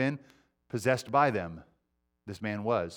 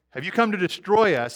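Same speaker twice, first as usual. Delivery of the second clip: demon speaking; 5 semitones higher, 4 dB louder than usual. Acted. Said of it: "He's like".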